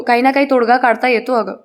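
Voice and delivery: plain reading voice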